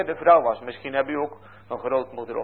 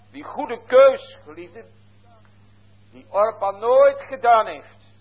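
fervent preaching; 6 semitones higher, 6 dB louder than usual. Acted. Preacher urges the congregation to choose God, raised and emphatic. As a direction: drive the point home to the congregation.

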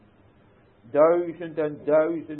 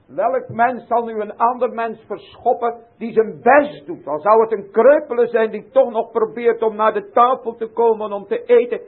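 loud, high pulpit appeal; impassioned preaching; 7 semitones higher, 13 dB louder than usual. Acted. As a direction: plead with rising fervour. Preaching about the cripple. (hartstochtelijk en luid gepreekt)

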